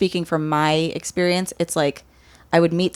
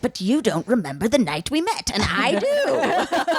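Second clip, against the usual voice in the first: high, drawn-out witchy voice; witch voice; 4 semitones higher, slower than usual. Acted. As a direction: play it like a sing-song witch. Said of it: "I love your rich, witch voice".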